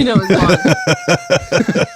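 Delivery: high laughing reply. Real, not acted. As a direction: laugh through the words.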